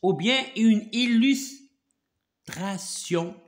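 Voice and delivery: French words drawn out syllable by syllable; slow teacher's model. Shown as a demonstration. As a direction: model the phrase very slowly for a learner. Teacher dictates French terms slowly.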